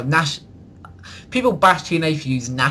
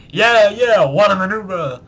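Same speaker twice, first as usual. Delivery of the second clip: mock Vince McMahon call; 5 semitones higher, 5 dB louder, slower than usual. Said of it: "It's like".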